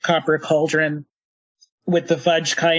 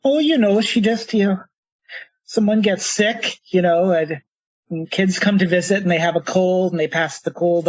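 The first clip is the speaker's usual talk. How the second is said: put-on light Minnesotan granny accent; Minnesotan grandmother. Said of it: "slipping into a Minnesotan accent for grandmothers".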